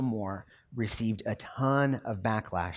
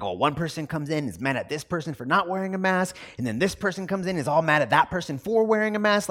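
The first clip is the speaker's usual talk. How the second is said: higher, fast, rising exasperation; exasperated retelling; 6 semitones higher, 5 dB louder, faster than usual. Retold or imitated. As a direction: rattle off the customers' squabbles, worked up. Cashier retells the mask fights.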